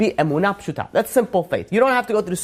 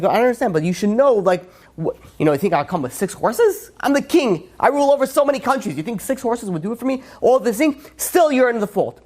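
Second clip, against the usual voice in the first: a raised, higher voice of a scolding king; mock royal scolding, pitched up; indignant king; 5 semitones higher than usual. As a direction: play the offended king putting the people in their place.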